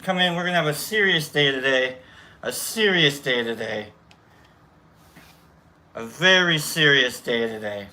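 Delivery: hammed-up meeting host in a loose Boston accent; badly faked Boston accent, ushering people in. Host welcoming everyone to coffee and cookies, bad Boston accent. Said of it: "I don't know why we're in Boston".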